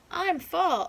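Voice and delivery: high and loud introduction; loud fall. Acted. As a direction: call out proudly as fall. Child groundhogs in seasons skit.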